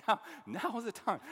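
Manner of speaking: tickled by the line, loud; amused. Real, not acted. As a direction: say it amused, at full voice. Laughing at own solemn quote.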